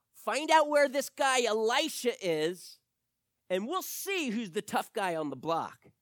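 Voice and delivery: high, loud royal order; commanding king. Acted. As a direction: bark the order to the troops. King orders his army.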